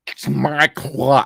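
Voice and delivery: slow, muddled mock-Russian accent; botched foreign accent. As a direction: attempt a Russian accent and miss. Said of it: "that accent was".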